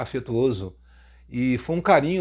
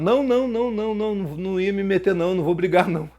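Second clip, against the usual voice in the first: mock pleading; 4 semitones higher, faster than usual. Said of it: "Assim mesmo".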